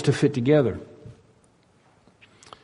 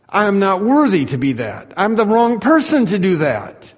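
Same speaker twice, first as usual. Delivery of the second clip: higher-pitched humble protest; protesting disciple; 4 semitones higher than usual. Acted. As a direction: object as an unworthy-feeling follower. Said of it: "if I'm one of the disciples".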